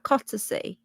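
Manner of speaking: Cottersea repeated as "COT-uh-see"; checking the pronunciation. Shown as a demonstration. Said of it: "Is that right?".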